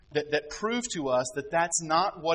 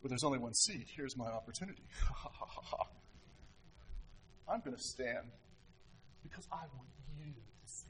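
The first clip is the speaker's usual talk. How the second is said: fake humility; 5 semitones lower, 11 dB quieter than usual. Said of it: "not walking in the room and going".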